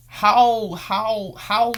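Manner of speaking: high, loud, outraged stammering; exasperated. Real, not acted. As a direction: sputter in disbelief.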